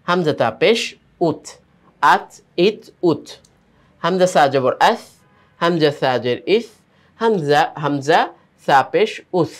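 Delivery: measured spelling chant, "হামজা তা জবর" then "আত"; name each letter and vowel, then sound the joined syllable like "আত", pausing between; reading drill demonstration. Shown as a demonstration. Teacher shows how to read the rules, measured syllable drill ending "আহ, ইহ, উহ". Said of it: "আমি এখানে পড়ছি নিয়মগুলো বা পড়ার ধরনগুলো".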